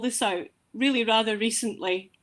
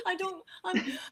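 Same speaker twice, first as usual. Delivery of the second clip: choked up; 9 semitones higher, 9 dB quieter than usual. Real, not acted. Overcome by mother's message.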